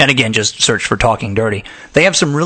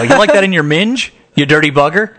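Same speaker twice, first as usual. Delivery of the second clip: plain American accent on British slang; 3 semitones higher than usual. Shown as a demonstration. Host shows British slang in American accent. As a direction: say it flatly American, higher. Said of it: "Weirder with an American accent".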